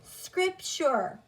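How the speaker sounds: "scripture" joined up as SCRIP-chur, falling tune; blended word. Shown as a demonstration. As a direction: put "scripture" together after sounding it out. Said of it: "Sound it out with me".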